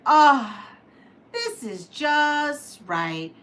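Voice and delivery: high, slow satisfied sigh of relief; pleased little girl. Acted. Curly Locks to the sewing machine, slow and content. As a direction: savor finding the right one. Goldilocks parody voiced character.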